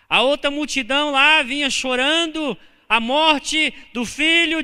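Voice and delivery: loud, high, fervent retelling; preached storytelling. Acted. Pastor recounting the Bible story to the church, loud and high. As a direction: tell the story like preaching from the pulpit.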